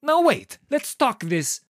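alarmed protest. A narrator's reading. Director protesting to his actor, alarmed and loud. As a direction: cry out to stop him.

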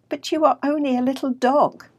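a touch of amusement, lifted high and loud; amused laughing. A narrator's reading.

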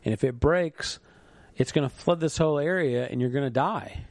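half-hearted shout to the man; mild yell from a boat. Retold or imitated. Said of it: "he's yelling at him and says".

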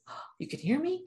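high, soft little animal voice; horse voice. Retold or imitated. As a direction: squeak it like a surprised young horse. Horse answering, voiced by speaker.

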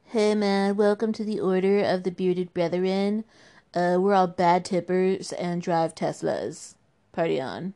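lightly voiced smug tech bro; a hint of a laid-back bro. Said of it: "sounds like an evil tech bro conference".

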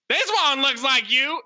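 high, hammed-up Southern yokel voice; mock Southern yokel accent. Correcting co-host's quote of the movie kid, mock Southern yokel accent. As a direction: imitate him with an exaggerated Southern twang. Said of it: "he says it like this".

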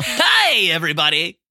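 squeaky high greeting. Retold or imitated. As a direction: jump way up into a high voice. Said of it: "the high voice".

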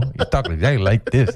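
friends mimicking his Mexican accent; mocked Mexican accent. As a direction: tease him with a put-on Mexican accent. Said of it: "they started making fun of me".

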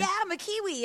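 put-on Kiwi accent. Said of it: "But they go".

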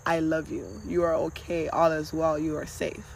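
soft, low reassurance; gentle whispering voice. Acted. Kind inner voice comforting you, soft and low. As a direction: soothe quietly, just above a whisper. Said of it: "lean into the voice whispering".

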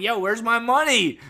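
high, loud demanding yell; loud mock-indignant shout; mock outrage. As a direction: demand your money, hammed-up. Acting cheated by Netflix.

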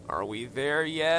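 drawn-out bored whine; slow, whining impatience; whiny voice. Acted. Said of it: "Later that afternoon".

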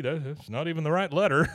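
words through a laugh. Retold or imitated. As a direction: laugh while saying it. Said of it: "just clue into what's going on".

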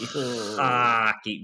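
hockey with a broad Midwest "Hockey" vowel; Midwest accent. Shown as a demonstration. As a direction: say "Hockey" like a Minnesotan. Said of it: "Did I do the Midwest accent right?".

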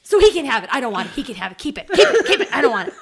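loud, high mock sobbing of a fed-up kid; a little girl wailing, keep it; imitated crying tantrum. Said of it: "Vivian's scream crying".

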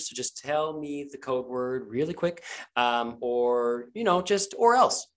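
sweet-talking, veiled threat; coax, then menace; Tanya coaxing. Acted.

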